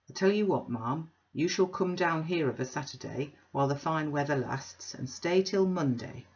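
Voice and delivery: a loud, bluff self-made man; blustering Bounderby. Acted. Bounderby booming an invitation to Mrs Sparsit. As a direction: boom the invitation like a braggart host.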